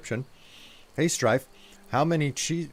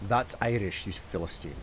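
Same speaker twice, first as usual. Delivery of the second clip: lightly put-on Scottish accent; 2 semitones lower, 5 dB quieter than usual. Shown as a demonstration. Streamer repeating a viewer's Irish jibe, in a Scottish accent. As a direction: stay in a mock Scots accent. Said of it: "doing in a Scottish accent".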